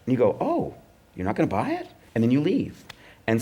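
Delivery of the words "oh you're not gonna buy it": high-pitched, let-down questioning; mock disappointment. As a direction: imitate a crestfallen writer, pitched up. Writer reacts to a soft refusal.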